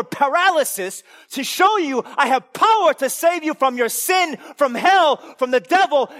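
high, loud preacher's cry; fiery preaching. Acted. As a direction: hammer the point home with full force. Preaching at full force.

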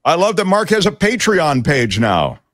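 excited, high-pitched near-yell. Real, not acted. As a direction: belt out the listener message. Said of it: "Why are you yelling?".

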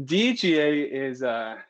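breathless, panting between words; talking while still catching breath. Real, not acted. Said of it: "Gotta catch my breath".

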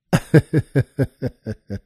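low amused chuckle. Real, not acted. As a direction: laugh at your own punchline. Teller laughs at own punchline.

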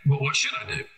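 squeaky exasperated cop; high mock question. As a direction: voice jumps up high asking.

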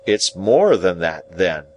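lightly voiced, pleased Joe; understated rustic announcement; simple Joe. Narrator voices Joe teasing out news.

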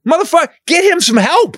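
high-pitched incredulous rant; exasperated outburst. Acted. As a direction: plead in mock outrage for someone to step in. Acted outraged reaction to film character.

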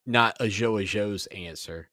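"not" hit hard, slow correction; host correcting his slip, leaning on "not"; stress on NOT. Shown as a demonstration. Host fixes his own mistake, stressing "not". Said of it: "Let me, let me fix that".

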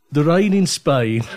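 Brummie vowels, slow and deliberate; Birmingham accent. Shown as a demonstration. Asked by the host for a sentence, a slow Brummie accent. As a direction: say it in the Brummie accent you were born with. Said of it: "the accent I was born with".

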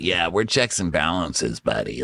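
a hint of a chill bro; mocking Craig. Craig smoothing things with Shep, light low mock. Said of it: "Craig's like".

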